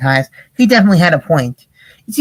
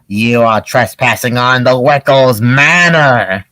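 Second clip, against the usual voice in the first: put-on slow, lower old man's warning; old man Wickle; 5 semitones lower, slower than usual. Old man Wickle's doorbell warning trespassers, slow and low. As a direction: warn off intruders like a grumpy old man. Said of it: "old man, uh, Wickle's voice".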